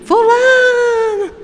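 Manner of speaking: a high, long-drawn yell of a name; mother yelling her son's name from far away; calling out a name. Retold or imitated. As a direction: stretch the name out as if calling across the house. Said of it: "eu gritei com ele".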